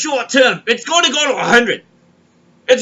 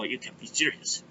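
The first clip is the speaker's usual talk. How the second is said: can't believe it, yell it out; outraged disbelief. Retold or imitated. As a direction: customer shocked the deli is out of bagels. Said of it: "I go".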